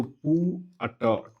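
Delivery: पू held, then ट on its own; separated sounds. Shown as a demonstration. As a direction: break पुट into a long पू and a separate ट. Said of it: "ट पे आ रहा है".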